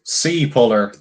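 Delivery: "Sea puller" in a put-on accent, falling at the end. Shown as a demonstration. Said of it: "I actually did get the accent there that time".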